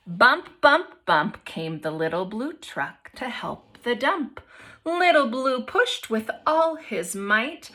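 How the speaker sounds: expressive picture-book read-aloud; reading to children. A narrator's reading. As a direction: read it to the class with lively voices.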